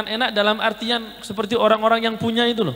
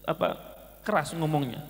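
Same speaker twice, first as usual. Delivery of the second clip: hushed, humble apology to his mother; soft apology; 6 semitones lower, 11 dB quieter than usual. Retold or imitated. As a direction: say sorry softly, head bowed. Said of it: "saya langsung minta maaf".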